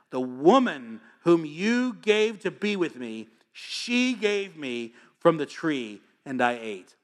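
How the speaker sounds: mock Adam passing the blame; sheepish Adam blames the woman, drawn out; whiny Adam. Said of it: "one of Adam's finer moments".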